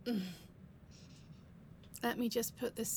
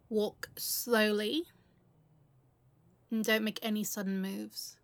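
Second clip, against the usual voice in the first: commanding; 5 dB louder than usual. Acted. Robber orders hostage.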